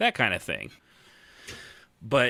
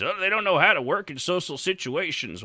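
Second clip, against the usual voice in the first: mocking quote; 8 semitones higher than usual. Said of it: "it's what people say about".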